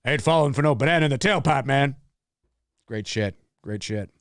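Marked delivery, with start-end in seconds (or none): 0.1-1.9 fast tough-guy quote in a put-on voice; mock tough guy. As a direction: rattle it off like a cocky hustler. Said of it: "I like when he does it like that".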